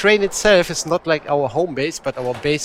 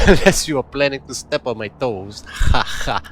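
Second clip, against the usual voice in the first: louder mock Russian accent with a stagey "ha ha"; attempted Russian accent; 6 dB louder than usual. Guide Ella jokingly warns the recruit, attempted Russian accent. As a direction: imitate a Russian or Polish accent, teasing threat. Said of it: "So I'm trying to mimic the accent".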